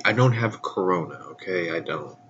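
blocked nose, casual reassurance; stuffy nose. Real, not acted. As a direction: talk through a stuffed-up nose. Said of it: "my nose might sound stuffy".

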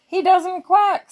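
put-on a child's high squealing pig. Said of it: "squealed the pigs".

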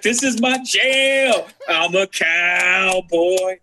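high, very slow, drawn-out cowboy enthusiasm; mock cowboy glee. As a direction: stretch it like a giddy cowboy. Voicing Alex loving the bar.

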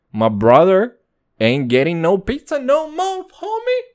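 loud teasing announcement to brother; mock threat. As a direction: playfully declare the punishment.

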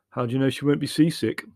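mildly curious question; lightly voiced curiosity; interested. A narrator's reading. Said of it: "inquired Leslie interestedly".

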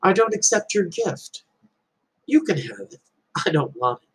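easy, unbothered and gentle; calm reply. Retold or imitated. Buddha calmly refusing the angry man's insult. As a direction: let it go without heat, gently. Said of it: "Buddha calmly said back to him".

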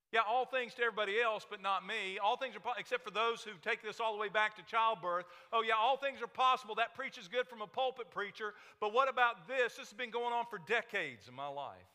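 loud, fast, high preaching burst; full-force preaching. Acted. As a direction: preach it hard, voice ringing out.

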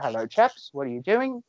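mock upper-class British accent; well-to-do British. Podcaster imitating Mister Harris for friend, mock British accent. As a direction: greet them as a well-to-do British gent. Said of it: "very well-to-do British guy".

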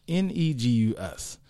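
spelling out in a put-on African accent; mock African accent, low-key. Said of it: "with my best African accent".

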